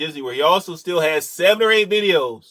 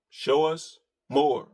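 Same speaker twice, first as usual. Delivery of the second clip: softer, slower repeat through a chuckle; slow, laughing; 5 dB quieter, slower than usual. Shown as a demonstration. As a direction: tease it out with a laugh. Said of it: "repeated after plain take".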